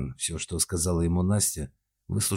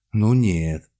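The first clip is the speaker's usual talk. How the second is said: desperate objection; 3 semitones higher, 8 dB louder than usual. A narrator's reading. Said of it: "отчаянно возразила дочь".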